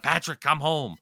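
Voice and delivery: lightly voiced fans calling out; fans' plea. Montreal fans pleading for a coach's return, mild plea. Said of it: "people are like".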